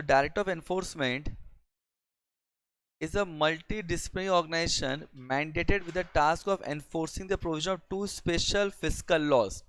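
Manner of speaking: reads the definition word by word, slowly; slow dictation. Shown as a demonstration. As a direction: dictate it so students can write. (धीमे-धीमे परिभाषा लिखवाते हुए)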